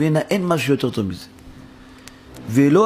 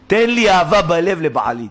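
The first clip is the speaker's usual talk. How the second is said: mock pleading, higher and slow; retold plea; 5 semitones higher, 4 dB louder, slower than usual. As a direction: act out her prayer, drawing it out. Retold woman's desperate plea to God.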